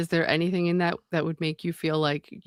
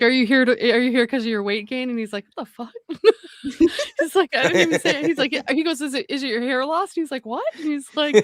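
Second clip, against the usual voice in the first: high, loud telling through laughter; real laughter spilling into the story; cracking up while retelling; 6 semitones higher, 4 dB louder, faster than usual. Real, not acted. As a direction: tell the bit while barely holding back giggles. Retells doctor bit, cracking up.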